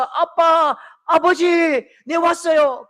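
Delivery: loud, high calling out; child shouting to his father on arrival; joyful shout. Retold or imitated. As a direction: call out arriving home.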